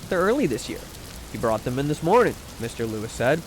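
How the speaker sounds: measured, softly read storytelling; audiobook-style reading with light dialogue; story narration. A narrator's reading. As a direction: read it aloud like a genteel short story. Reads a short story aloud.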